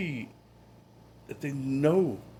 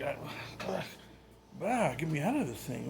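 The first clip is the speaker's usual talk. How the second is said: higher-pitched imitation of a restless child; fussy little kid; 6 semitones higher, 4 dB quieter, slower than usual. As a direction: lightly mimic a kid squirming to get out. Voicing restless child in high chair.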